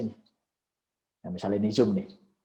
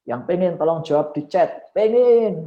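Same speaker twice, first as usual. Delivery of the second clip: higher, louder call for replies; rallying the audience; 6 semitones higher, 7 dB louder than usual. Shown as a demonstration. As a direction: pull an answer out of the crowd. Prompts audience response in demo.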